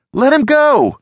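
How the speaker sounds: high, loud demanding shout; Alex, shouting. A narrator's reading. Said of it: "Alex shouted".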